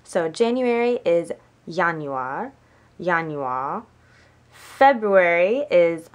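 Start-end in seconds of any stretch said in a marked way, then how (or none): 1.7-2.5 Januar said the German way, with a Y sound first; German month name. Shown as a demonstration. Learner showing viewers the months, German pronunciation. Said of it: "to do the months". 3.0-3.8 Januar said the German way, with a Y sound first; German month name. Shown as a demonstration. Learner repeating the month for viewers, German pronunciation. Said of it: "to do the months".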